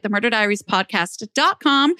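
ordinary talk, nothing marked

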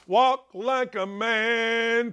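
"Walk like a man" drawn out very slowly, each word weighed; slow, deliberate. Real, not acted. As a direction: spell it out slowly like a lesson. Ranting about effeminate men.

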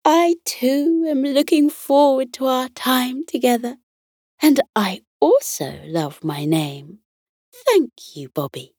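high, light teddy bear voice; Glenda Glitter. Acted. Teddy bear thanking her young friend, high and bubbly. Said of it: "Glenda Glitter let out a light".

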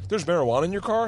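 shocked. Retold or imitated. Retold security guard question.

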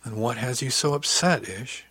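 understated tender concern; gentle question. Acted. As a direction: gently coax out the trouble. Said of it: "she asked gently".

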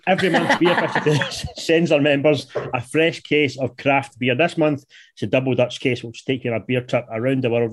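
upbeat sponsor read. Acted. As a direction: sell it like a radio ad. Host reads sponsor ad.

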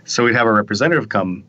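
talking through a yawn; stifling a yawn mid-sentence. Real, not acted. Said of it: "Sorry, I'm yawning here".

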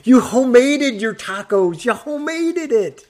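high, loud, teasing amazement; mock amazement. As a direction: gush over it jokingly.

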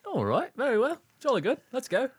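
high, posh-play English accent, hammed up; mock British accent. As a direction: put on a jolly English accent for fun. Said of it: "enjoy our terrible accents".

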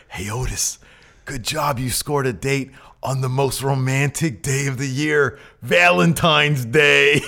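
lightly voiced buddy, stretching out Valentine's Day; a hint of Tucky cheering his pal, drawn-out ending; Tucky congratulating. Co-host voices Tucky praising Otis for the date, mildly teasing. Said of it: "Tucky says".

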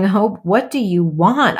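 lightly hammed-up demanding director, slow; maniacal director. Frustrated mother questioning her crying daughter, mock maniacal director. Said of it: "I was like this maniacal director".

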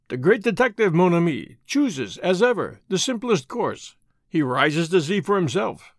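lightly voiced Belgian detective, smug; a hint of a self-satisfied foreign sleuth; Poirot voice. Poirot speaks.

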